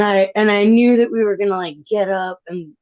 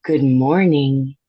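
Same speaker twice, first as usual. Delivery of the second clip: calm; 4 semitones lower, 3 dB louder than usual. Retold or imitated. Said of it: "in the calmest voice on".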